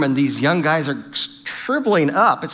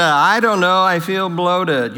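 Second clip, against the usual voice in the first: reluctant wife; slower than usual. Retold or imitated. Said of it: "You may get a".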